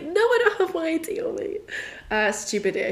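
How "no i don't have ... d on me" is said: squeaky panic. Retold or imitated. Asked for ID at the desk.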